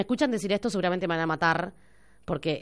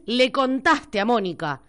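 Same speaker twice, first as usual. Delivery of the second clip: Argentine way; 3 semitones higher than usual. Shown as a demonstration. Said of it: "Decís".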